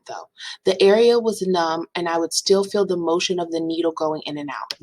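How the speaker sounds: lightly melodramatic testimony, as if over violins; mock-dramatic reading. Patient reading her testimony aloud, mock-dramatic. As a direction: read it as hammed-up tragedy. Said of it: "cue the violin strings".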